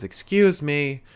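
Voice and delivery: a hint of Vickie's drawn-out heel call; mock Vickie call. Podcaster imitating Vickie Guerrero quieting the crowd. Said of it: "She says".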